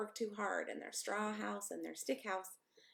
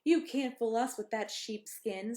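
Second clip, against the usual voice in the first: higher, louder defiant pig; little pig voice; 4 semitones higher, 6 dB louder than usual. A narrator's reading. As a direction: refuse him boldly. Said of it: "said the second little pig".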